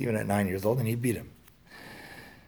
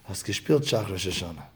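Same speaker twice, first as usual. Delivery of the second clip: a mild hint of looking down on the boy; the father's question turned into a light rebuke; condescending tone; 2 semitones lower than usual. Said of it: "just a change of tone".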